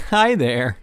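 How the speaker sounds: loud hearty greeting. Acted. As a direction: boom a welcome. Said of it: "hearty slap on the back".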